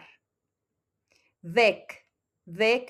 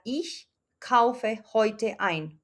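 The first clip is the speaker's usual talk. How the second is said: slow model sentence; much slower than usual. Shown as a demonstration. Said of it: "entonces la oración quedaría".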